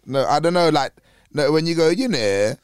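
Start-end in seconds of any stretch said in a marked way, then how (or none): 1.9-2.5 put-on a light Hull accent, vowels pulled. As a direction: Hull accent on a can of Coke. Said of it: "that's more like, like Hull".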